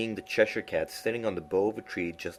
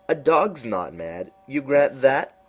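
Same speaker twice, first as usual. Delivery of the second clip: high, slow, drawn-out cat voice; lofty knowing cat, high and slow; Cheshire Cat voice; 7 semitones higher, 8 dB louder, slower than usual. A narrator's reading. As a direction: purr it out like a sly grinning cat.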